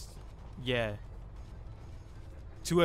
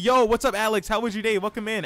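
voice crack; 5 semitones higher, 6 dB louder than usual. Pretend. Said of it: "our voice crack".

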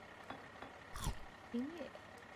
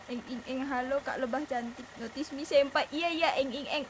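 squealing fangirl, louder; excited anime fan; 3 semitones higher, 5 dB louder than usual. Pretend. Fangirl greeting to bee.

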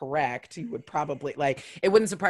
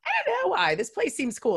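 much higher, playing innocent and puzzled; naive high voice. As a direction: pitch way up, faux-naive and clueless. Retelling her own reply.

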